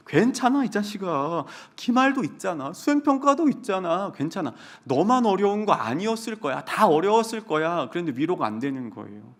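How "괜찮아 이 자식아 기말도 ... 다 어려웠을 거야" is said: mock comforting. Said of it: "웃음을 참느라고 힘들었어요".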